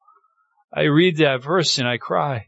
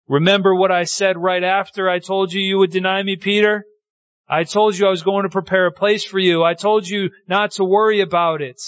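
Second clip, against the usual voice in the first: higher-pitched, insistent reminder; acted earnest reassurance; 5 semitones higher than usual. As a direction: urge a stricken friend not to worry. Voicing Christ reassuring Peter.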